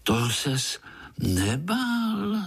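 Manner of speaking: put-on high, slow, amazed child's voice; small spider marvelling aloud; wondering little spider. A narrator's reading. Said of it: "divil se Pája". (udivený pavoučí hlásek)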